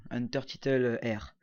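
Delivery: French accent English. Real, not acted. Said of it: "Désolé pour mon accent anglais magnifique".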